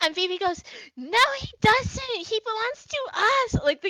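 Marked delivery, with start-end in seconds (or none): 1.0-3.6 put-on high, shrill child's yelling protest. Voicing a child who argues over a dragon: child screaming and arguing. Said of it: "screaming and arguing right now".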